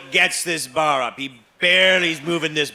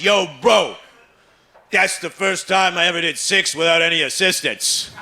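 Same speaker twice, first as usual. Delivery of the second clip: excited gym bro; 3 semitones higher than usual. Retold or imitated. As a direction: gush like a thrilled lifter. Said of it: "and he says".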